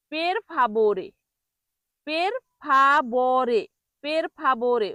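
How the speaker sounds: পের ফাভোরে with b in place of v; wrong-way demo of পের ফাভোরে, hard "bo"; common mispronunciation. Shown as a demonstration. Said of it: "ভয়ের জায়গায় বয়ের মতো উচ্চারণ করে".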